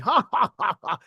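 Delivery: hearty laugh. Shown as a demonstration. Caps his hammed-up toff audition.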